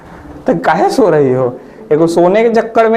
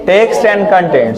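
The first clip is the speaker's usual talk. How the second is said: each word stretched very slowly; drawn out; much slower than usual. Shown as a demonstration. Teacher slowly reading the option name to students, drawn out.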